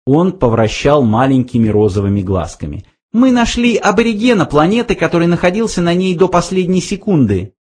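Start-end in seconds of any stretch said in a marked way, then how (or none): 3.1-7.5 high squeaky mouse. A narrator's reading. Frankie interrupts Slartibartfast, high mouse voice. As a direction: cut in brightly.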